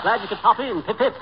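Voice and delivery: chummy English gent greeting; put-on jolly British accent; mock British accent. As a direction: greet him as a British toff. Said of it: "this Bond Street brogue".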